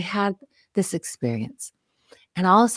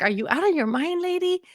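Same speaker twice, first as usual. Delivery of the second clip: mock annoyed teen; 8 semitones higher than usual. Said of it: "she looks at me like".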